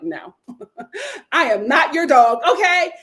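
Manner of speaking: half-laughing, loud "not your dog" snap-back; laughing refusal. Retold or imitated. Chris laughing as he refuses Isaiah, mock indignant. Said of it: "Chris is like".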